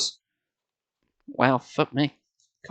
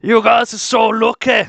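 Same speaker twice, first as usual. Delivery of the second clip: put-on high, slow girlish character voice; envious friend; 5 semitones higher, 3 dB louder than usual. A narrator's reading. Lauren envying the Alaska trip, high-voiced. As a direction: stretch it out enviously, pitched up.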